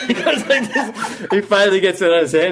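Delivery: high squealing laugh through the words; laughing fool. Acted. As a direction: cackle while fumbling the turban.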